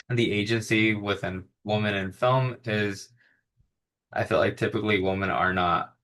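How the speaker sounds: hiccups breaking the words; hiccuping. Real, not acted. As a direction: talk through the hiccups. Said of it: "like, hiccuping".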